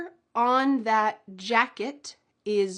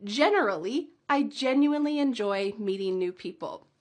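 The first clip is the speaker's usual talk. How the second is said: normal speed run. Shown as a demonstration. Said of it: "Can you speed it up with me?".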